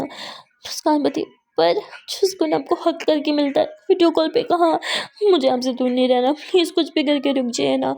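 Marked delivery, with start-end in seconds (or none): 1.6-7.9 pleading. Acted. Muskan begging lover to stay.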